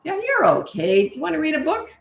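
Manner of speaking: sing-song brightness that lets the moment pass; breezy reassurance. Shown as a demonstration. Parent to child after a tantrum, bright and unfussed. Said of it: "Something like that".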